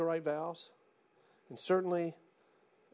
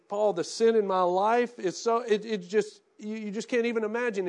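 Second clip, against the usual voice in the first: imagined desperate confession; 5 semitones higher, 9 dB louder than usual. Retold or imitated. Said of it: "you're going".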